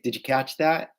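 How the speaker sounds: casual, run-together Californian "Did you catch that"; relaxed Californian phrasing, words linked; Californian accent. Shown as a demonstration. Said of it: "カリフォルニアだよね。 We say".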